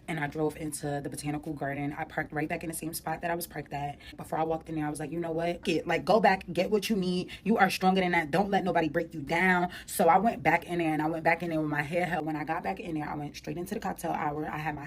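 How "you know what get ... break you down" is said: firm, louder rallying self-talk; self pep talk. Retold or imitated. Outside the venue she rallies herself, firmly. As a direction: pump yourself up before walking back in.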